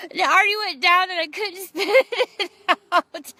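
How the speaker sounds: high, loud retold panic; frantic and half laughing; comic panic. Mother retelling the swallowed breast milk, comic panic.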